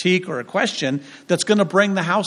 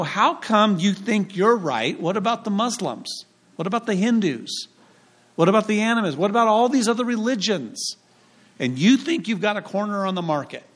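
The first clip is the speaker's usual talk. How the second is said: higher-pitched, insistent questioning; challenging questions; 5 semitones higher than usual. Retold or imitated. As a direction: fire off sceptical questions in a higher voice. Grandmother challenges the speaker's faith.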